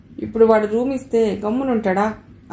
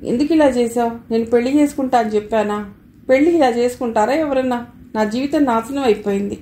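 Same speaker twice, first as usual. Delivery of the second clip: bursting into tears. Acted. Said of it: "అంటూ బోరుమంది".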